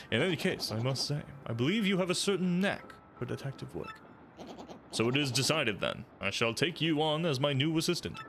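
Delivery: lightly voiced pompous sleuth; a hint of a smug investigator; generic inquisitive detective. Detective penguin lecturing the player, lightly pompous. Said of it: "generic inquisitive person".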